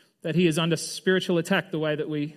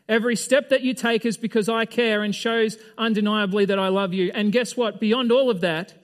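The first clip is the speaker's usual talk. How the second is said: higher, louder, earnest voice of Jesus; 4 semitones higher, 4 dB louder than usual. Retold or imitated. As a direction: speak as Jesus reassuring Paul. Jesus says to him, in effect.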